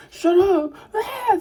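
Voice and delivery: put-on high-pitched kid's yell; embarrassed outburst. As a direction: blurt it out, flustered and stung. Kid lashes out, embarrassed.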